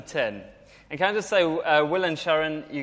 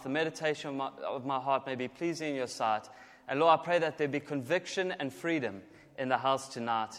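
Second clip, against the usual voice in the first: softening prayer voice, quieter as it goes; 4 dB quieter than usual. Real, not acted. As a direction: pray gently over the message. Opening prayer.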